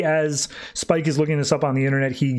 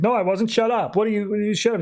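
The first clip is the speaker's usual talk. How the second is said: higher-pitched mock Southern twang; 6 semitones higher than usual. Villain snapping back at the hero who recognized her, Southern twang. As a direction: put on a light Southern twang. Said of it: "like, Southern twang thing going on".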